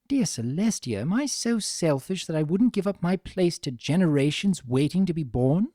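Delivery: lightly voiced refined mare growing dismayed; Rarity reasoning. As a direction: talk yourself into dismay.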